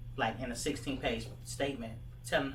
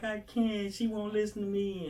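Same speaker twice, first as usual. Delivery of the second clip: imitating a crying girl, pitched much higher and louder; 9 semitones higher, 4 dB louder than usual. Girl in the mall, crying about her mom, high tearful plea. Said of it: "And she just crying".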